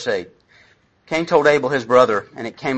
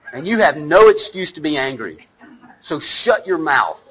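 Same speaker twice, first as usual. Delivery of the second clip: mock harsh parent; 3 dB louder than usual. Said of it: "when I'm a bad parent, what I go into is".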